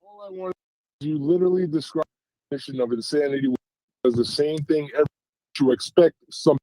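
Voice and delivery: breaking up, cutting in and out; bad connection dropouts; choppy phone line. Real, not acted. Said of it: "it's kinda choppy".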